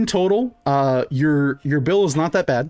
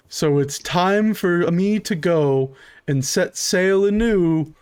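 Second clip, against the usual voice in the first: slow, sing-song goodbye announcement; rehearsed farewell spiel; slower than usual. Acted. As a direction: recite the cruise farewell slowly. Waiter recites farewell sing-song.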